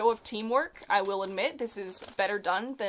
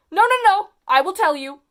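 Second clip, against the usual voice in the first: much higher and louder, squeaking in panic; panicked squeak; 10 semitones higher, 12 dB louder than usual. Acted. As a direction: squeal it out like a cornered kid. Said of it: "he squeaked".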